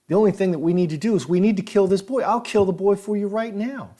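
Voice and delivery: desperate pleading. Retold or imitated. Lawyer begging the killer not to shoot him, rising frantic plea. Lawyer bargaining for his life.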